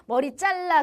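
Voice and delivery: mock strict teacher's order; a hint of teacherly scolding; discipline teacher. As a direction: lightly imitate a school discipline teacher giving a curt command. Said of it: "학생부 선생님처럼".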